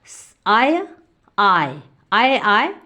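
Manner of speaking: आय को खींचकर, साफ़ बोलें; स्वर आय को लंबा खींचकर दिखाएँ; drawn-out आय sound. Shown as a demonstration. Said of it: "इसमें". (आय का उच्चारण धीरे-धीरे खींचकर)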